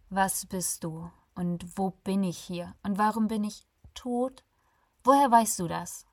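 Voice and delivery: rising panic, firing question after question; tense voice. Acted. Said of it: "mit angespannter Stimme".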